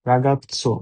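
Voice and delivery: ragazzo with zz said ts, ragatso. Shown as a demonstration. Teacher drills ragazzo for Bengali learners. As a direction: split the double z in ragazzo into t plus s. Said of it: "ragazzo না হয়ে ragazzo".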